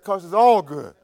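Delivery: breaking up mid-story, pitch climbing high; real laughing. Real, not acted. Preacher cracking up at his own drilling-rig story, laughing. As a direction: try to get the words out through laughter.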